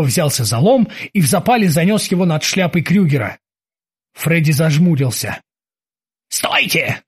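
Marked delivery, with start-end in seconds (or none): none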